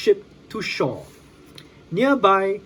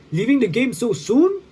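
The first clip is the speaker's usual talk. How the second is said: mocking hero; 6 semitones higher, 4 dB louder than usual. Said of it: "he asked".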